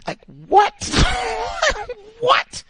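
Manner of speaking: high-pitched, loud disbelieving cry of what with a burst of laughter; incredulous laugh. Real, not acted. Reacting to a coworker's insult, shocked laughing disbelief. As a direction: shriek out your disbelief and laugh at the absurdity.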